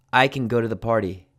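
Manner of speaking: CAN reduced to "kun"; unstressed can. Shown as a demonstration. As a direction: say CAN short and weak, with a schwa. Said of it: "this sounds like kun".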